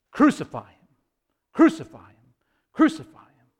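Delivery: rising, separate cries of a crowd, not full shouts; retold crowd demand. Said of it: "And the crowd".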